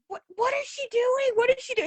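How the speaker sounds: very high, squeaky mock rant voice; ranting girl. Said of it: "She's like".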